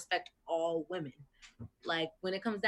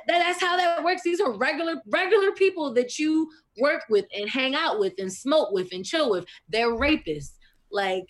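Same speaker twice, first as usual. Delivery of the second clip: loud, passionate tirade; outraged loud speech; heated rant; 2 semitones higher, 9 dB louder than usual. Real, not acted. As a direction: keep hammering it loudly.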